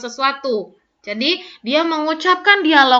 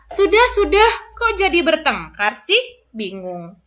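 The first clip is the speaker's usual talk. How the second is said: Wulan's line; 3 semitones higher than usual. Shown as a demonstration. Teacher reads Wulan's line.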